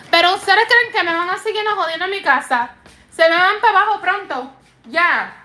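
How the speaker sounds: scolding family. Real, not acted.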